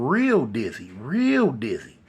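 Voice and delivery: "real" drawn out with a swooping pitch; stress on REAL. A narrator's reading. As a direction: stretch out the word "real". Narrator stresses how dizzy they got.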